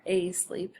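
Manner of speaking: "a sleep" opened with A as in day; long A. Shown as a demonstration. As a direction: demonstrate the wrong long-A start of "a sleep". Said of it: "the A is not short or long".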